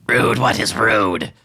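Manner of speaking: slow, high puzzled creature voice; baffled kobold. Acted. Grey Gut puzzled by Tibio's insult, slow and high. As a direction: draw it out, truly confused. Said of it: "he looks at you and he says".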